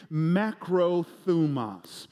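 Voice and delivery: Macrothumos said slowly, each syllable clear; broad singsong kids theatre. Shown as a demonstration. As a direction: Macrothumos modelled slowly for repeating. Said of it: "Can you say that with me".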